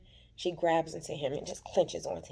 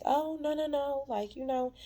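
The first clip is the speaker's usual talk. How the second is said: lightly voiced Belinda brushing it off, higher; mock coy refusal; 10 semitones higher than usual. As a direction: play her sweetly dismissive. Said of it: "And she's like".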